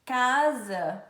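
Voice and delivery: "Casa" with a held buzzing z; S sounded as Z. Shown as a demonstration. Teacher showing S as Z, "Casa" with lengthened buzz. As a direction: lean on the z in "Casa". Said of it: "tem um som de Z".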